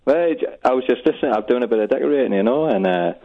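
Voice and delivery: unconvincing Geordie accent; bad Geordie accent. Real, not acted. Caller chatting to radio host in bad Geordie accent. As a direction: speak in a poor attempt at Geordie. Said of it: "This is the worst Geordie accent".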